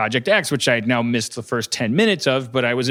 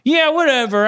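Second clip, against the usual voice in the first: faux casual; 11 semitones higher, 4 dB louder than usual. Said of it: "I was like".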